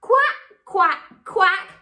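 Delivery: high quacking duck voice; high duck quacks from mummy duck. Acted. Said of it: "Mummy duck said".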